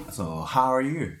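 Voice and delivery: hammy broken English small talk; fake English. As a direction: play a phony English-conversation teacher. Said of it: "エセ英語をちょっと喋り始めた".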